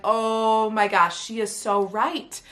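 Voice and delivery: drawn-out, slow "oh my gosh"; retold amazement, slowed right down; awed realization. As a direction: let it dawn slowly, stretching the words. Retells realizing coach was right.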